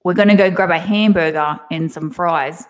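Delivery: put-on a light, self-conscious try at an American accent; American accent attempt. Friend asks her to repeat the phrase in an American accent. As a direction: do your best American accent. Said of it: "say it back to me in an American accent".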